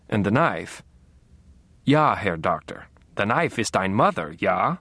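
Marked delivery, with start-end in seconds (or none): 1.9-4.8 lightly hammed-up German psychoanalyst; mock German accent. Dexter mocks his own dream reading, German accent. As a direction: put on a German accent, gently mocking.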